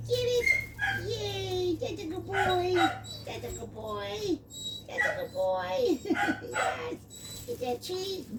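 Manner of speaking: very high, excited sing-song for the puppy; high doggy-talk. Real, not acted. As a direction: hype the puppy up in play. Playing with puppy.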